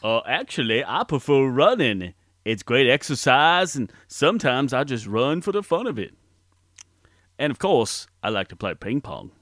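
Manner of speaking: simple, earnest Alabama man; Forrest Gump voice. Acted. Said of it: "Please welcome Forrest Gump".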